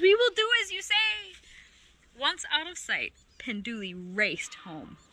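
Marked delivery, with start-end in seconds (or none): 0.0-1.3 high-pitched chorus of creature voices; calling out. A narrator's reading. Creatures promising to obey, calling out high. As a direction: call it back high and obedient. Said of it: "called the creatures".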